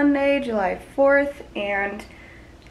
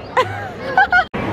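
much higher teary giggle; giddy laugh. Real, not acted. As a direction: laugh as if about to cry from joy. Overwhelmed in line, laughing.

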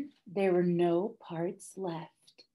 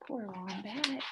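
sympathetic; 2 semitones higher, 13 dB quieter than usual. A narrator's reading. Narrator pities Wombat.

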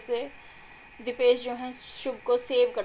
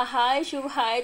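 calling hello; 4 dB louder, slower than usual. Retold or imitated. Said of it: "जब मैंने कहा".

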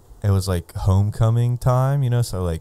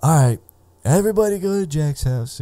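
Leo rallying everyone; 8 semitones higher than usual. Retold or imitated. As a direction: shout it out like rounding up the party. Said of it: "was like".

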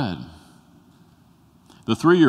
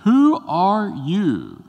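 high, loud, pleading cry; Moses crying out; 10 semitones higher, 6 dB louder than usual. Acted. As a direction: shout up at the burning bush in awe. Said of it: "he says".

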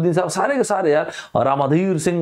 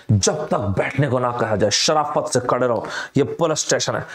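Bachchan dialogue; 5 semitones lower than usual. Retold or imitated. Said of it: "Bachchan साहब ... angry young man".

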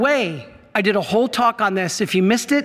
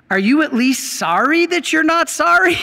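puzzled priest; 8 semitones higher, 4 dB louder than usual. Retold or imitated. Priest questions reluctant penitent.

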